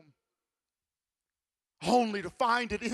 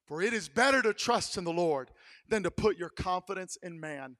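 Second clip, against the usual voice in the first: usual speaking voice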